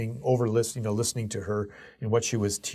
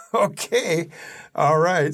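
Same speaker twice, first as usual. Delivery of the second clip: nervous; 5 semitones higher, 4 dB louder, slower than usual. Retold or imitated. Nervous reply going live unprepared.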